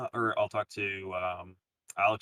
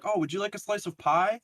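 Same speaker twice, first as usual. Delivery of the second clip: imitating a host; 10 semitones higher, 3 dB louder than usual. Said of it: "they're like".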